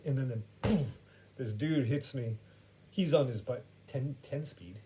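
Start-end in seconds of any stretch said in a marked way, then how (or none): 0.6-0.9 puffed-out crash noise; short breathy poof for a collision; imitated impact. Storyteller imitating a bike hitting him, puffed impact noise.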